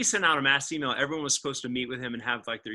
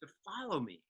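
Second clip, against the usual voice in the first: 1 hushed divine voice; 2 semitones lower, 12 dB quieter than usual. Retold or imitated. Voice of Holy Spirit, hushed.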